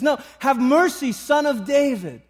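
high, loud, insistent plea; crying out. Acted. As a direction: refuse to be silenced and call for mercy. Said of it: "he cries out again".

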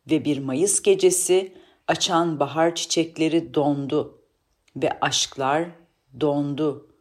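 measured reading of an ancient inscription; declaimed verse with weighted pauses; solemn recitation. Acted. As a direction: recite it like an old legend. Sage recites the monument's inscription.

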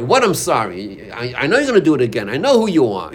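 fast, scoffing retort to an apology; a mock-bitter spouse snapping back fast; scornful disbelief.

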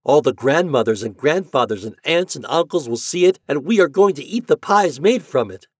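put-on high, loud children's exclamation; gleeful storybook announcement; excited cry. A narrator's reading. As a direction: shout the good news like a crowd of eager children. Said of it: "they cried".

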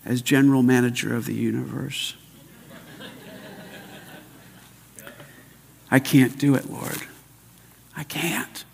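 prayer of surrender. Shown as a demonstration. Preacher surrendering control to Jesus in prayer, subdued.

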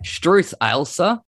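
drawn-out Australian "Struth Ailsa"; Aussie accent. Shown as a demonstration. Host teaches guest an expression, Aussie accent. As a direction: model the broad Aussie phrase slowly. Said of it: "in your best Aussie accent".

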